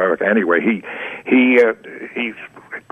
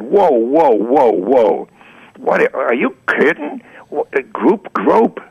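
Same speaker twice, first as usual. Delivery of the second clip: high, drawn-out disbelief; incredulous objection; 3 semitones higher, slower than usual. Retold or imitated. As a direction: halt him with rising, slow incredulity. Retold incredulous objection to editor.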